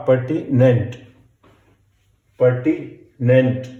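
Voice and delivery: pertinent said slowly and clearly; slow dictation. Shown as a demonstration. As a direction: read pertinent slowly for shorthand. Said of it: "dictation teacher".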